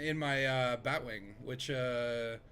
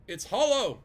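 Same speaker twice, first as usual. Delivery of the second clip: loud, higher mock-shocked exclamation; dramatic reveal; 8 semitones higher, 10 dB louder, slower than usual. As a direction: announce it like a conspiracy reveal.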